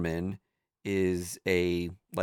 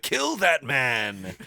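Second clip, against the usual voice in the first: tiny demon lizard voice; 4 semitones higher, much slower than usual. Retold or imitated. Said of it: "it's constantly like".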